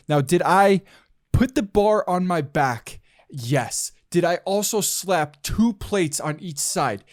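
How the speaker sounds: building comedian rant, slowing on the punchline; lightly voiced cocky comedian; Chris D'Elia impression. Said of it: "that was my best Chris D'Elia impersonation".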